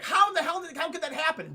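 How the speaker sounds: high-pitched, stammered disbelief; retold outburst of shocked confusion; mock incredulity. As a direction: act out being flabbergasted. Retold shock at destroyed planet.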